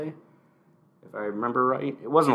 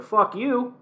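higher, angry retold snarl; mock Kofi rage; 5 semitones higher, 6 dB louder than usual. Kingston confronting McIntyre, angry mock outburst. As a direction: growl it like a wronged champ. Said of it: "and he's like".

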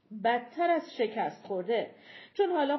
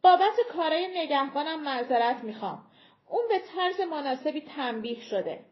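raised, louder persuasive voice; smooth giant envoy; 4 semitones higher, 4 dB louder than usual. Acted. Giant leader apologizing for his guard, smooth persuasion. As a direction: sound sorry but keep control.

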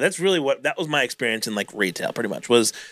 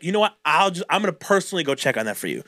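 mock favor; 2 semitones higher, faster than usual. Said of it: "Like I'm fucking doing them a favor".

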